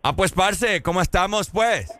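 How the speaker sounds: imitated Colombian greeting; Colombian accent. Shown as a demonstration. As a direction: put on a Colombian lilt. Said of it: "interpretar un acento".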